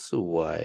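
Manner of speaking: สวย dipping low, then climbing; rising tone. Shown as a demonstration. Student trying out the tutor's tip, rising tone. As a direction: start สวย low and swing it up midway. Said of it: "Change your mind in the middle".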